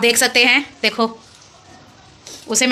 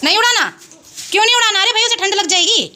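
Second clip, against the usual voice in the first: playful coaxing; 9 semitones higher than usual. Real, not acted. Mother playfully arguing with toddler.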